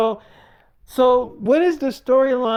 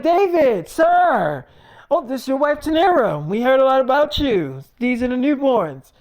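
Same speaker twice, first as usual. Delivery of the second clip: higher and louder, gushing welcome; eager greeting; 5 semitones higher, 4 dB louder than usual. Retold or imitated. Game staff greeting David and his wife, gushing and high. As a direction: greet the big client with bubbling excitement.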